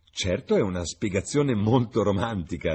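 amused. A narrator's reading. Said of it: "disse la padrona di casa ridendo".

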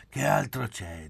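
firmly convinced retort. A narrator's reading. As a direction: say it as beyond any doubt. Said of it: "disse Poli convinto".

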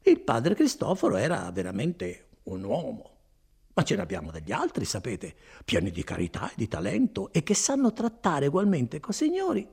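chatty, persuasive pitch; lightly played friar, talking up his brethren; a hint of a garrulous monk; lightly voiced friar. Voices Fra Galdino offering other friars.

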